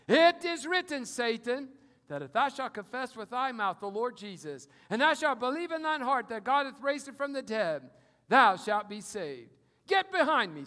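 loud, ringing scripture proclamation; bold rebuke. Acted. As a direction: declare it to Satan's face. Believer rebuking Satan, preaching force.

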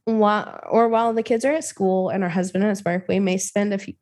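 measured, deliberate read-aloud; story narration. A narrator's reading. Host reading a creepypasta to a co-host, measured story narration. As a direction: narrate it evenly with crisp phrase breaks.

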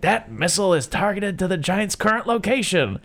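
high, loud, slowed general yelling at Mansley; furious general. Retold or imitated. General demanding of Mansley where the giant is, high and loud. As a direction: bellow the last question slowly, outraged.

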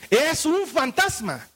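mild fearful cry. Acted. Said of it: "de miedo se pusieron a gritar".

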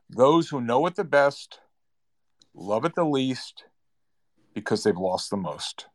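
slow, deliberate delivery with pauses between phrases; said slowly. Shown as a demonstration. Host quoting a saying slowly for his guest. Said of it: "I'll say it slowly, and I'll say it twice".

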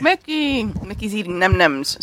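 talking while crunching snacks; crunching chips. Real, not acted. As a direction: mouth full of crunchy snacks. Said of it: "pardon the, uh, crunching".

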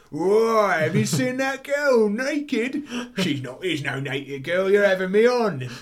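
loud, high mock Cockney guard, gawping; hammed-up Cockney lad gasping at a naked girl. Cockney guard gawping at the naked girl, high and loud, in mock Cockney. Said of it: "Cockney working class guards go".

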